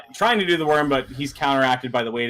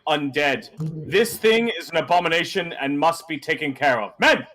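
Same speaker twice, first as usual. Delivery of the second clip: a hint of a stern captain giving orders; lightly voiced commander, firm; stern guard captain. To the adventurers and his men, a lightly voiced stern captain. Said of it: "He goes".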